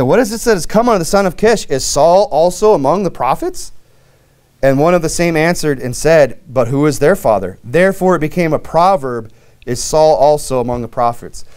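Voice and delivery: emphatic reading of a Bible verse; scripture reading. Acted. Preacher reads how a proverb began, measured scripture reading. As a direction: read it out as scripture, questions lifted.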